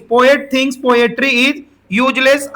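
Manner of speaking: drawn out, every word spaced; slow dictation. Shown as a demonstration. Teacher repeating the question to the class, very slowly. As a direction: read it slowly so they can copy. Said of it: "repeats the question slowly".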